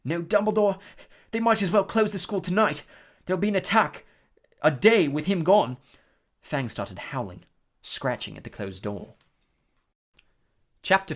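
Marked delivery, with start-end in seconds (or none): 0.0-5.8 high, louder, hoarse alarm; hoarsely predict disaster. A narrator's reading. Ron fears for the school without Dumbledore, hoarsely. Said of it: "he said hoarsely".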